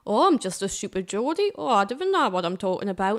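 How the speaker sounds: lightly hammed-up clueless Geordie; mock stupid Geordie. Sending up how the accent gets used, mock stupid Geordie. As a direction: play up the daft local a little. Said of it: "this accent especially gets used to be like".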